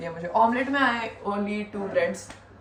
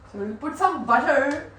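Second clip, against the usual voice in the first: lightly voiced YouTube cooking auntie, slow; 6 semitones higher, 4 dB louder, slower than usual. Vlogger imitating a famous cooking auntie, lightly voiced. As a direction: play a cheerful cooking-show auntie, a touch slower. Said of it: "I feel like that auntie".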